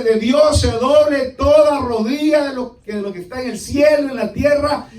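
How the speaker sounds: loud, emphatic preacher, key words stretched; preaching. Real, not acted. Preacher warning a resistant congregation, emphatic preaching. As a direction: preach it out forcefully.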